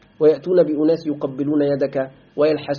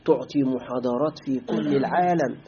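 softer, coaxing voice of a tempter; luring recruiter; 4 semitones lower, 5 dB quieter than usual. Retold or imitated. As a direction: lure the student in with sweet promises. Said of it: "يقول لك".

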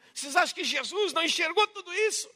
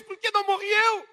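grieving mother's lament; 6 semitones higher than usual. Retold or imitated. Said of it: "A mãe diz".

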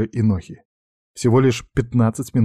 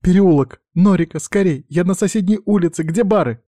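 urgent shout, much higher and louder; shouting into the phone; 9 semitones higher, 5 dB louder than usual. Acted. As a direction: yell down the phone for help. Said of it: "кричала в трубку Норика". (кричит в трубку, громко и высоко)

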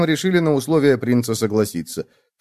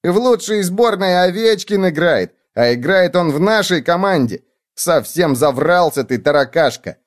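high, lively rebuke; high-pitched indignant little bug; scoffing bedbug; 7 semitones higher, 3 dB louder than usual. A narrator's reading. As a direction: scold a fibber in a high voice. Bedbug character scolds the cockroach.

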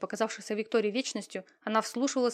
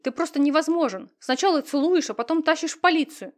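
loud, higher, outraged protest; indignant outcry; 7 semitones higher, 8 dB louder than usual. A narrator's reading. Victoria yells at Slade while being dragged out, loud and outraged. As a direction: yell it as she fights his grip.

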